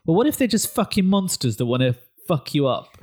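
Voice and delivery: playful, emphatic imitation of a provocative pitch; imagined director's pitch. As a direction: pitch a shocking idea with mounting relish. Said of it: "Scott came along and said".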